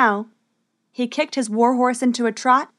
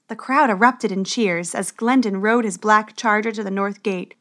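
usual speaking voice

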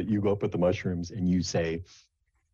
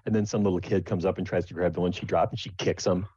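ordinary talk

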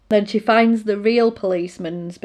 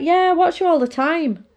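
put-on higher girl voice, lightly sweet; little girl confessing she watches the woman; creepy little girl; 8 semitones higher than usual. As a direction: say it sweetly, unaware it's creepy. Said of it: "she's like".

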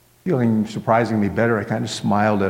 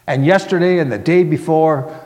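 loud, higher, exasperated answer; testy, emphatic comeback; irritated retort; 6 semitones higher, 6 dB louder than usual. Acted. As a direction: pile it on crossly, voice raised.

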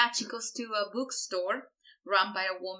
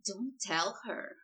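slow, softer Kardashian drawl; Kardashian accent; 5 dB quieter, slower than usual. Acted. Co-host demonstrating the line for a friend, Kardashian accent. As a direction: draw it out in a mock Kardashian accent. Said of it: "That was my Kardashian accent".

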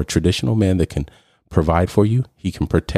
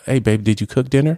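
higher, mock-casual "Hey, babe" to the wife; a husband casually asking about dinner; 7 semitones higher than usual. Husband voiced in acted quarrel.

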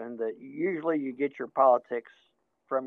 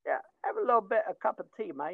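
mock British accent; 4 semitones higher, faster than usual. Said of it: "that offended you guys for a horrible accent".

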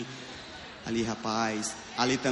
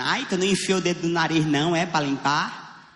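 mocking friend. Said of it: "Meus amigos ficam me reclamando".

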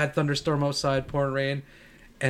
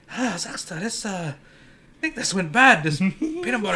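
grandfather; 6 semitones higher than usual. Retold or imitated. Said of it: "he would go to my grandma and be like".

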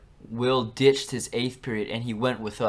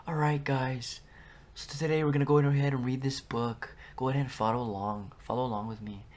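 soft, hushed odd teacher voice, drifting quieter; imitating the weird teacher; 4 dB quieter than usual. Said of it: "she would talk like".

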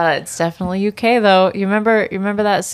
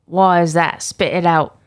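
mock British accent; put-on British accent. Co-host answering the mock quarrel, put-on British accent. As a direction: play along in a fake British accent. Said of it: "before I lose my accent".

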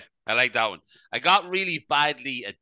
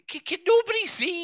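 high, disbelieving cry; incredulous outrage. Retold or imitated. Retelling his reaction to a creepy comment, shocked and high. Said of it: "And you're like".

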